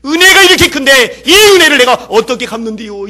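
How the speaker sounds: loud, high, tearful plea to God; weeping prayer. Retold or imitated. Weeping leper thanking God aloud, loud and tearful. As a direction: cry it out between sobs of thanks. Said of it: "그 사람이 울고 불고 있는 거예요".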